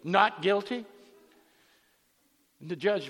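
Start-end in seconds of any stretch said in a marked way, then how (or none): 0.1-0.9 louder, higher, rising answer; retold defiant plea. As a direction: play the woman pleading back boldly. Defiant defendant answers judge.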